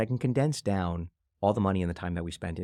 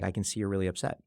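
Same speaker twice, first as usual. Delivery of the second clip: validating. Shown as a demonstration. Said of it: "But, like".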